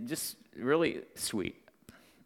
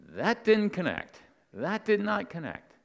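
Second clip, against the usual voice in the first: retold disbelief; 7 semitones higher than usual. His startled reply to her answer.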